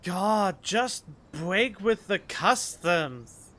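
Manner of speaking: exasperated outburst. Acted. Urging her to break with the customs, loud and exasperated. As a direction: throw up your hands and push her, slowly.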